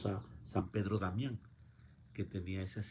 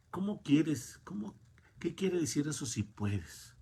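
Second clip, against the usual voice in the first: incredulous; 8 semitones higher than usual. Acted. Jesus questioning the father's doubt.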